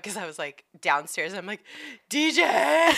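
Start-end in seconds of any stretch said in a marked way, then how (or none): 2.1-2.9 loud, high call up the stairs; calling out a name. Retold or imitated. Wife calling her husband from downstairs, a loud high yell.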